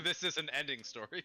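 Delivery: words through laughter; laughing. Real, not acted. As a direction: say it while laughing. Laughing repeat.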